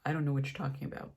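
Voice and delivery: fast, curt and impatient; snippy brush-off. Retold or imitated. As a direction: rattle it off like you're fed up. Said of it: "And I'm being a bitch at this point".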